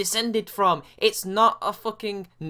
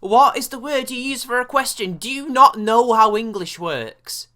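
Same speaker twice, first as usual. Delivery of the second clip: louder and higher, incredulous scolding; exasperated rant; 5 semitones higher, 7 dB louder than usual. Real, not acted. Scolding the woman in the clip, exasperated and louder. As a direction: lose patience with someone being dense.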